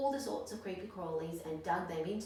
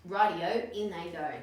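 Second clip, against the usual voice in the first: louder, gleeful call; gleeful shout; 8 dB louder than usual. Acted. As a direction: cheer it out eagerly. Dingo agrees gleefully.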